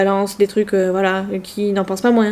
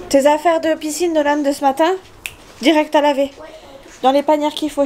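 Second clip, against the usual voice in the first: calling out; 5 semitones higher than usual. Real, not acted. Instructing son across room.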